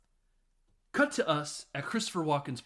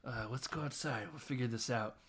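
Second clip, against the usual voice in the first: calming; 6 dB quieter than usual. Retold or imitated. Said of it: "And he's like".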